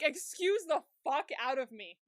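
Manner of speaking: loud, laughing mock outrage. A viewer is appalled and laughs it out, loudly indignant. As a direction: blurt it out as if scandalised. Outraged reaction to the retold scene.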